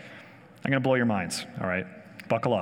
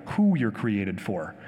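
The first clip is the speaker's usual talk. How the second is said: "who" drawn out slowly, the rest falling lower; stress on who; 7 semitones lower, much slower than usual. Real, not acted. Preacher refining his point to the congregation, stress on "who". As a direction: lean long on "who", then drop away. Restates the phrase, swapping what for who.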